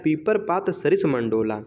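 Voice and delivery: slow, deliberate recitation of the verse; slow verse reading. Shown as a demonstration. Teacher reads the verse example slowly to the class. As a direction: read the example line slowly, word by word. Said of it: "अगला example है, कह रहा है".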